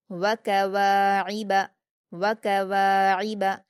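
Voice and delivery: व कवाइब recited slowly, the वा held for two beats; quick short syllables, long वा, throaty ain in व कवाइब; stretched long vowel. Shown as a demonstration. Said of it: "दो हरकत खींचकर पढ़ेंगे".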